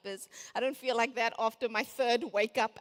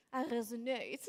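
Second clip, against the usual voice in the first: a hint of a sexy French accent on I resonate; lightly voiced French admirer saying I resonate; 3 dB quieter than usual. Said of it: "their sexy French accent".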